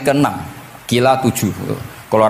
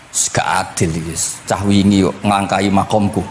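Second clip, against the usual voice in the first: low, grumbled complaint; grumbling; 4 semitones lower than usual. Acted. Musa complains of being overtaken, low grumbling. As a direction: grumble it under your pitch, resentfully. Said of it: "Grutu iku".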